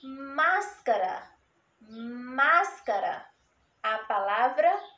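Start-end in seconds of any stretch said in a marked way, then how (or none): 0.0-1.3 1 slow. Shown as a demonstration. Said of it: "Mas tem o A e o S". 1.8-3.3 1 slow. Shown as a demonstration. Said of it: "Mas tem o A e o S".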